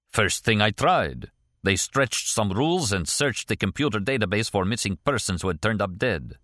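lightly voiced Russian émigré character; a hint of a Russian accent, measured delivery; Kastner, accented former KGB man.

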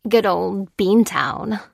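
slow, wry drawl on the nickname; lightly voiced Maurice. Maurice naming his home city, slow and wry. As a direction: savor the old hometown name.

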